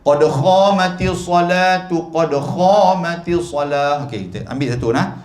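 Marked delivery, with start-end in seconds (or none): 0.0-4.0 khamatis said with a rasping kh, slowly; mispronounced khamatis. Shown as a demonstration. Preacher mocks a mosque caller's wrong khamatis. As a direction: imitate the wrong qad khamatis salah. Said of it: "Kalau khomah tu maksud dia apa?".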